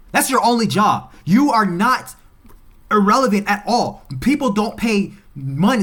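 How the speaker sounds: loud, high, furious lecture aimed at the refs; angry shouting. Real, not acted. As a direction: yell it at the referees, outraged. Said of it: "I am so pissed".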